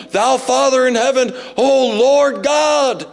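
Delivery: slow, solemn, overly churchy mock prayer; stiff formal prayer. Preacher mocking a stiff formal prayer to God, slow. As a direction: drag it out like a pompous liturgy. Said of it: "this formal thing".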